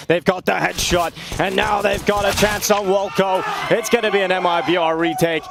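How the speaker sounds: live match commentary; esports caster. Acted. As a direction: call the round live, play-by-play.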